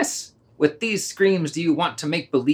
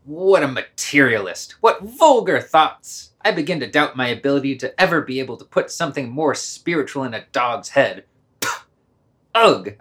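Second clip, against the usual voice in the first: theatrical lament. Acted.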